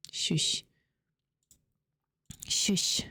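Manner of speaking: breathy hushing whisper; whispered shush. Real, not acted. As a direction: whisper it to hush someone. Hushing someone off mic.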